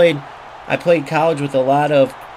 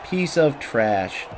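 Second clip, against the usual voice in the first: slow insult; 3 dB quieter, slower than usual. Real, not acted. Player insulting an opponent in the game, slow and muted. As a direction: say it slowly, drawing out the words.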